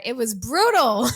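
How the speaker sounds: laughing through it. Real, not acted. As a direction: laugh out loud at the memory. Laughs at her own story.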